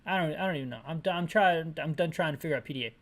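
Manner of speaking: ordinary talk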